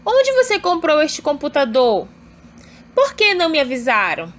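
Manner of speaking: "Onde você comprou" as a clear question; question intonation. Shown as a demonstration. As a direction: demonstrate interrogative tune on "Por que não me avisaram?". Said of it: "essa entonação que, de fato, é uma pergunta". (entonação de pergunta em "Por que não me avisaram?")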